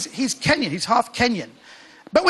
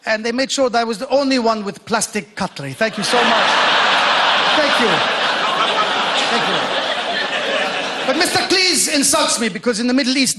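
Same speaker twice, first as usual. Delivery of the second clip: lightly put-on Middle Eastern accent; stage Middle Eastern accent. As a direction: play the welcomed guest in a Middle Eastern accent. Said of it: "why I'm talking like this".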